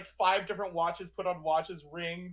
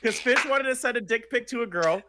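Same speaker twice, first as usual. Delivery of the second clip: laughing; 4 semitones higher, 5 dB louder than usual. Real, not acted. Telling the story while laughing.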